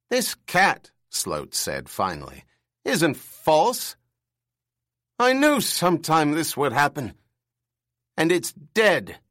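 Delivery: put-on bird-like old man, rattled and loud; high, loud screech of shock. A narrator's reading. Old boss finding the cat is real, high screeching alarm. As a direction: squawk it out as the truth hits. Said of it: "only his bird screech voice".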